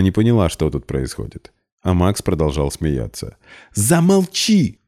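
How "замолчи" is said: much higher, slow snapped order; shrill demand. A narrator's reading. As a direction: demand silence furiously. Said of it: "потребовала Полина". (гневно, очень высоко)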